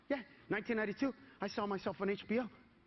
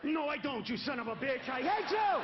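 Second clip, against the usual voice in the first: mock angry retort; 2 semitones higher than usual. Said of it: "retorting to friend".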